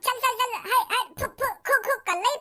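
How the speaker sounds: calling out hay, phoo to chase off a cat; mock shooing noises. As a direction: shoo the cat away, hissing phoo. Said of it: "बिल्ली बैठी हुई तो मैंने खूब".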